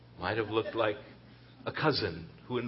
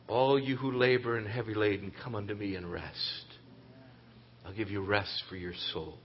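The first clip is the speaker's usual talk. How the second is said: gentle inviting voice; 3 semitones lower than usual. Acted. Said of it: "you can hear a different voice".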